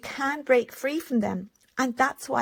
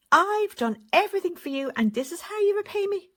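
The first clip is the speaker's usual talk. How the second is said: guilt-tripping parent; 8 semitones higher than usual. Retold or imitated. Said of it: "And here they are".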